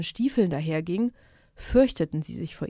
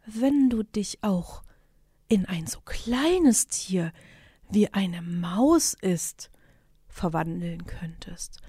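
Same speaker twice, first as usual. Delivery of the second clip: slow, coaxing whisper; slow flattering whisper to the sorcerer; sweet whisper; slower than usual. Acted. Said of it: "von den süßen Worten".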